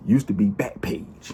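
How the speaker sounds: whispered aside; hushed joke aside. Real, not acted. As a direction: sneak it in under your breath.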